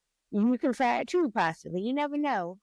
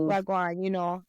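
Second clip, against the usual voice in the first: put-on Jamaican accent. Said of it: "my Jamaican accent".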